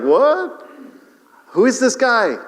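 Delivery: high, loud startled cry; shocked disbelief. Retold or imitated. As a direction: yelp in amazement. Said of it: "he's like".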